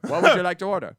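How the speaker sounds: high-pitched imitated Chinese phone greeting; hammed-up Chinese-accented takeout greeting; mock Chinese accent. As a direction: put on a Chinese restaurant worker's accent. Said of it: "make two Chinese restaurants call each other".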